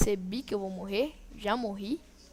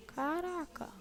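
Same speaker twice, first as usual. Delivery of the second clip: dismayed outcry; 8 semitones higher, 5 dB louder than usual. Real, not acted. Dies to the boss.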